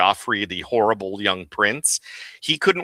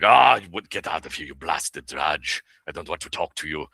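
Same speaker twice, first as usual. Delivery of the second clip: lightly voiced old German man brushing someone off; a hint of a grumpy dismissive officer; funny and dismissive; 4 semitones lower than usual. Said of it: "funny and dismissive".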